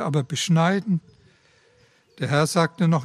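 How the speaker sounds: measured, even storytelling voice; a parable read from the pulpit; story reading. A narrator's reading. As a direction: read the parable aloud to the congregation. Reads a story aloud in the sermon.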